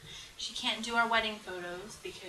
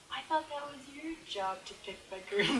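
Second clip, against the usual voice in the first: a light, slightly higher mimic of her fiancé; imitating fiancé; 5 semitones higher than usual. Bride retelling the fiancé's reply, lightly mimicking him. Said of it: "What does he say to me?".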